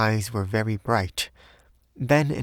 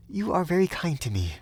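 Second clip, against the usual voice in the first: high, grateful woman's voice; high, earnest feminine tone; earnest young Frenchwoman; 8 semitones higher than usual. A narrator's reading. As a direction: thank him in a high voice.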